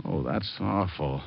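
soft, slow, low-pitched sympathy; quietly dismayed. Acted. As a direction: take the bad news in softly and slowly. Hears his friend is badly hurt.

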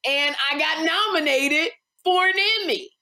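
high, crowing cartoon voice; hammed-up boast that leaps up high at the end; cartoon-voiced boast. Comedian crowing about an Emmy nomination, cartoon boast.

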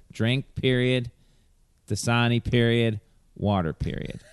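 each word on its own, slow; Drink, period, Dasani, period, water; read with full stops. Shown as a demonstration. Reading the Dasani script aloud, each word a stop. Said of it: "It says".

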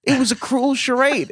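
Cal Naughton. Retold or imitated. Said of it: "Duke Johnson's like".

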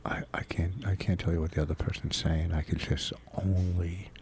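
real hushed play-by-play; hushed commentary. Real, not acted. Husband relaying his wife's phone call to listeners, hushed commentary. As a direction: keep your voice down as you commentate. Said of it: "I'm just trying to whisper".

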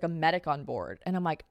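ordinary talk, nothing marked

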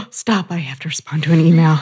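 breathy mock whisper, interrupting. Telling her partner mid-sex she must answer email, mock whisper. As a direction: hush it like a sudden urgent thought.

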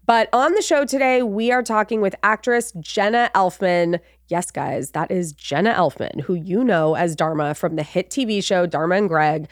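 congested, stuffy nose; talking through a cold. Real, not acted. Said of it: "I sound a little congested".

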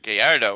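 Gallardo with double L said like y; Spanish pronunciation. Shown as a demonstration. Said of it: "Come on, double L".

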